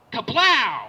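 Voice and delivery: loud, booming gun noise; big drawn-out cartoon blast; mock gunshot yell. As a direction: shout the sound effect like a gunshot. Robber imitating a gunshot.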